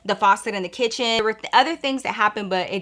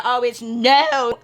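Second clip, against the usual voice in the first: slow sassy refusal; 3 semitones higher, 4 dB louder, much slower than usual. Retold or imitated. Refusing to look at dark kitchen.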